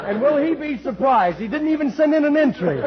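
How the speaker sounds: can barely get it out for giggling; chuckling through the punchline; laughing. Real, not acted. Laughing through his own joke.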